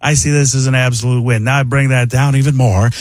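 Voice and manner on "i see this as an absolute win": Paul Giamatti impression. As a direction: bring the voice further down. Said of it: "it becomes Paul Giamatti".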